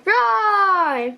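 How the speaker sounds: the roar comes back; triumphant roar. Acted. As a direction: roar at last. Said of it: "found his roar".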